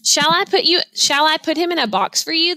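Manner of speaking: sales lady. Acted. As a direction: play the eager sales lady. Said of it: "the sales lady asked".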